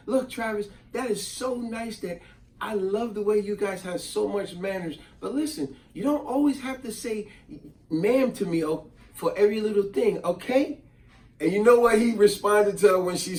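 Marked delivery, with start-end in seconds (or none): 0.1-10.8 gentle advice. Retold or imitated. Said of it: "she said".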